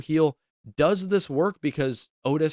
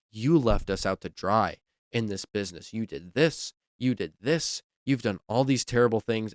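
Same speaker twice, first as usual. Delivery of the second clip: a lower, understated somber read; imitating somber; 3 semitones lower than usual. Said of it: "Instead, she was so somber".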